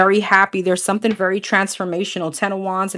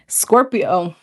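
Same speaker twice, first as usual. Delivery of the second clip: voice cracking. Real, not acted. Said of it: "Why did my voice just crack".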